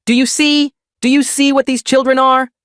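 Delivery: put-on outraged grandma ranting to the family about the children; shrill rant. Grandma ranting after shriek.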